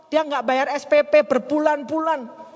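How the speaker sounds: put-on tearful complaint; imitated crying. Widow confessing unpaid school fees to the speaker, imitated crying. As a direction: drag it out like a mock sob. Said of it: "Dia nangis".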